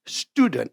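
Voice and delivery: "student" in two syllables, no added vowels; English-style "student" demo; English pronunciation. Shown as a demonstration. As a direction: say "student" the English way, final t dropped. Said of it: "이게 안 돼갖고요".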